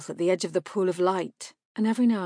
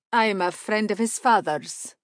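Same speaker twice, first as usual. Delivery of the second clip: courteous stranger; 3 semitones higher, 5 dB louder than usual. A narrator's reading.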